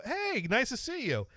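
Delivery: high-pitched friendly hello; retold chirpy greeting. Re-enacting walking up to an old classmate, chirpy greeting. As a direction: greet him in a high, sociable lilt.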